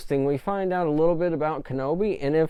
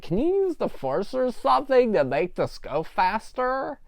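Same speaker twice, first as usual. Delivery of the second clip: put-on high, childlike little voice; kid impression; 9 semitones higher than usual. Reviewer voicing Leia as a kid, high and childish. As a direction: play it like an impatient kid. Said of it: "that's just my impression of a, a kid".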